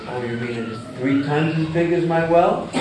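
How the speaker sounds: a hint of frog voice, laughing through the question. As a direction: ask half-laughing as the doubtful frog. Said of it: "the frog in the well says".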